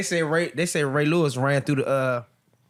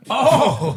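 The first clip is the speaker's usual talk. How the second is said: loud, higher cry of shock; 6 semitones higher, 6 dB louder than usual. Real, not acted. Listener hears the awkward joke, loud shocked "oh". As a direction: react aloud to a joke gone too far.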